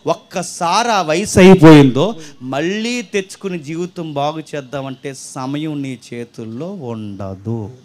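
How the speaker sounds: a preacher's slowing, ominous close; slow and weighty, fading away; slow dramatic warning. Acted.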